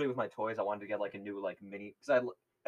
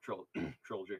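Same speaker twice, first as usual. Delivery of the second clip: voice crack. Real, not acted. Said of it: "Voice crack".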